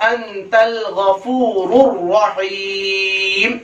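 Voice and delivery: deliberate phrase-by-phrase model reading; careful recitation. Shown as a demonstration. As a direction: recite with long held vowels. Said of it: "सही तलफ़ुज़ को हम देखें".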